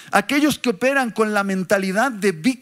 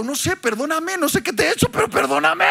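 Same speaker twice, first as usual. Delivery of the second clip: confused apology; 5 semitones higher, faster than usual. Retold or imitated. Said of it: "he dicho".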